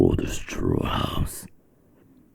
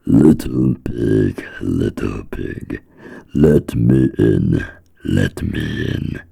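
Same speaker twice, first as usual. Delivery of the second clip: wolf voice; 3 semitones higher, 4 dB louder than usual. Acted. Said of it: "knocked on the door and said".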